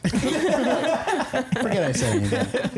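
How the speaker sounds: laughing. Real, not acted. Laughing at own slip.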